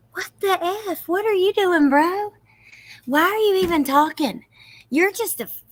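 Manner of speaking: loud, high, disbelieving yells at the screen; outraged yelling. Real, not acted. Viewer yelling at the suspect on screen, loud and outraged. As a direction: blast the suspect in real outrage.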